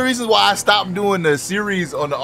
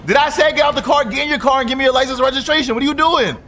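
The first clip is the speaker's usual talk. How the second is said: yelling; 3 semitones higher than usual. Acted. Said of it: "I don't know why I'm still yelling".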